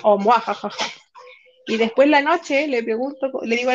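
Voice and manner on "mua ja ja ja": mad scientist. Retold or imitated. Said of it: "así, o".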